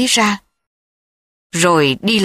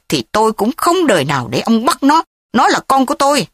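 raised, heated voice, higher pitched; angry; 4 semitones higher than usual. Acted. Thúy angrily turns away the old uncle, raised voice. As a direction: angrily refuse to hand over the child. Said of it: "Thúy tức giận".

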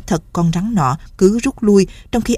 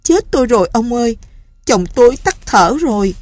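higher, hammed-up wailing; wife faking grief with a put-on wail; fake crying; 6 semitones higher, 3 dB louder than usual. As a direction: pretend to weep over a dead husband. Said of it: "giả vờ khóc lên".

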